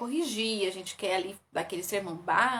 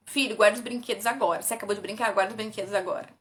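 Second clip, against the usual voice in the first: commanding; faster than usual. Shown as a demonstration. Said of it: "ao invés de você falar assim".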